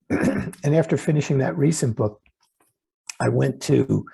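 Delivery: throat needs clearing, slightly rough; frog in throat. Real, not acted. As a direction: talk through a catch in the throat. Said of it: "excuse me for a second, I have to clear my throat".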